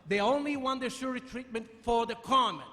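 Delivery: loud sharp voice for the crowd; talking loud. Real, not acted. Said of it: "there's no need to shout".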